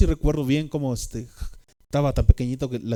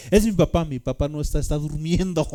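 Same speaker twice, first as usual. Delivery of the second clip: higher, louder, startled reassuring; frightened explaining; 4 semitones higher, 4 dB louder than usual. Retold or imitated. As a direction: talk fast to cover his own fear. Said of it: "estaba una voz espantada".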